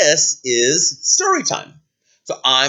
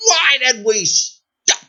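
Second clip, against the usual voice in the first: indignant, higher-pitched demand; drawn-out cry of royal outrage; princess outraged; 10 semitones higher, much slower than usual. Acted. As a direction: demand an explanation, voice raised high. Princess yells at sudden stop.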